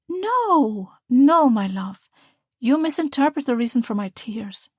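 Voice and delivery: mother reassuring her daughter, tearful and tender. Acted. Mother tearful but proud.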